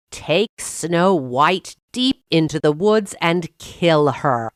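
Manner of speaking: a lightly voiced queen commanding; ordering. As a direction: give the order coldly and slowly. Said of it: "the queen ordered the huntsman".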